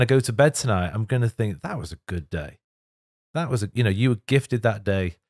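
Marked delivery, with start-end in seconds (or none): 1.6-5.2 crying. Real, not acted. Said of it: "sorry, I keep crying all the time".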